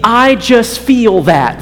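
slow, lightly pious "I just feel that"; a hint of gentle mock piety in "I just feel that". Preacher naming the devotional voice to students, slow mock piety.

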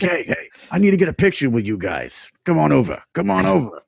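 lightly voiced pushy Italian host; a hint of a mafia guy calling you over; mafia guy impression. Guy at the hotel waving the band over, light Italian mafia voice. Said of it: "You do impressions, too".

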